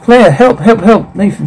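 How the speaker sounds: high, urgent repeated pleas; panicked cries without full volume; understated acted scream; acted screaming for help. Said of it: "Claire screaming".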